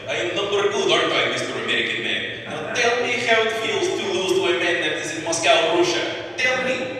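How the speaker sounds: put-on high, loud gloating in a Russian accent. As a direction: taunt the loser in a Russian accent. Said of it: "talking to 'em in a Russian accent".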